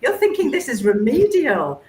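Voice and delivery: high, bright-eyed disbelief; excited inner voice. Retold or imitated. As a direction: raise the pitch in amazement at the misunderstanding. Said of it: "And I thought".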